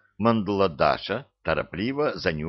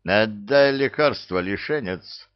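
menacing growl; 2 semitones higher, 3 dB louder than usual. Acted. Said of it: "грозно рыкнул Илья".

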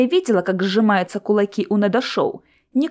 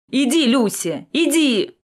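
shout; 3 semitones higher, slower than usual. A narrator's reading. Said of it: "крикнул".

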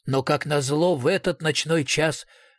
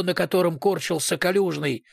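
usual speaking voice

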